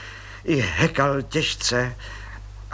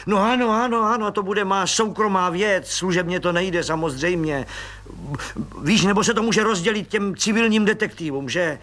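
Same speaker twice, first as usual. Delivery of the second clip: a lightly voiced eager officer, pitched up; keen to please, a touch higher; eager colleague; 8 semitones higher than usual. Friend agreeing with the colonel, lightly voiced eager.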